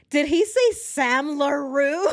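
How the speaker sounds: high, loud, slow, laughing through tears; crying with laughter. Real, not acted. Hearing the fake name, crying with laughter. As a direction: barely get it out for laughing. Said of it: "I'm in tears".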